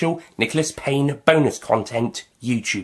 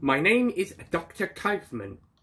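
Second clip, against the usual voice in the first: put-on terrible German accent, pitched up; 5 semitones higher, 6 dB quieter than usual. Playing a doctor introducing himself, in a terrible german accent. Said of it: "This is a terrible German accent".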